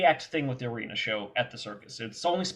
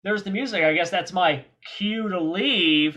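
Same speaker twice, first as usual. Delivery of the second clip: mock Goblin; 3 semitones higher than usual. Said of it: "and he goes".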